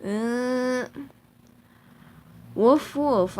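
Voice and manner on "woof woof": dog bark. Pretend. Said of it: "stupid animal impressions".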